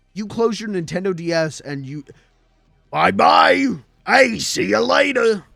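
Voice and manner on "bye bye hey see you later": belted out loud, slow and rough. Mario signs off as you close your Nintendo DS, in a Captain Lou voice. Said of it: "that Captain Lou ass voice".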